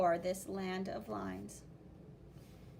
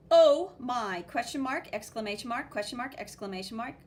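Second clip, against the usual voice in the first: surprised; 7 dB louder than usual. Acted. Friend reacts to seeing the yellow monster. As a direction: voice the surprise of the speech bubble. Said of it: "And then, gasps".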